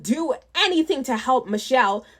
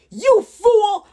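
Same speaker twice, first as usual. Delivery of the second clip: loud, high goblin yell; 8 semitones higher, 7 dB louder than usual. Acted. Goblin yells at another goblin in a huddle, loud and high. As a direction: snap it at a fellow goblin. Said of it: "one yelled".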